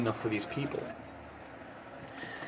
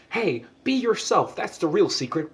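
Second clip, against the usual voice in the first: mock preachy TV-lesson voice, high and slow; after-school special voice; 5 semitones higher than usual. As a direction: spoof a cheesy after-school special moral. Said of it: "like, after-school special type".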